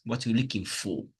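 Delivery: quick question ending on a full "for"; stress on FOR. Shown as a demonstration. Teacher repeating the example, full FOR at the end. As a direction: keep "for" in its strong form. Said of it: "That's stress".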